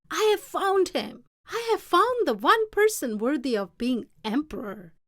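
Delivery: high and loud joyful proclamation; an old emperor's triumphant cry; exclaiming. A narrator's reading. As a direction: announce it to the whole court with delight. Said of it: "he exclaimed to one and all".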